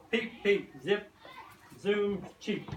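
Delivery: chick sounds. Acted. Chick noises in action.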